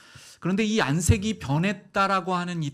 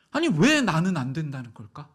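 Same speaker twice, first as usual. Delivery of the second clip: mock protest; 4 dB louder than usual. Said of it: "이렇게 막 항변하고".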